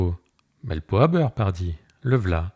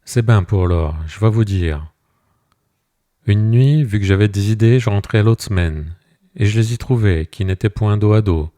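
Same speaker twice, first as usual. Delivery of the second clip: louder, worked-up account; shepherd recounting to the mayor, heated; heated telling; 5 dB louder than usual. Acted. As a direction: tell the betrayal with rising anger. Shepherd tells finding them in bed.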